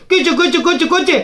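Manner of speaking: lightly mimicked chicks; imitated chick cheeping. Speaker mocking whistling supporters as chicks, lightly imitated cheeping. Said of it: "அப்படின்னு கத்த விட்டுட்டா".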